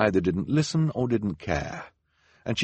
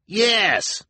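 high, loud eager yell; called out; 6 dB louder than usual. A narrator's reading. Verhoeven family member calling out from the crowd, high and loud. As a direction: call out your agreement from the crowd. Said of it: "called out a member".

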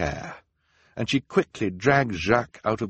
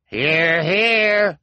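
much higher, loud cheering cry; cried out; 11 semitones higher, 8 dB louder than usual. A narrator's reading. Several townspeople crying agreement, high and loud. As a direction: cheer them on from the crowd. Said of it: "several voices cried".

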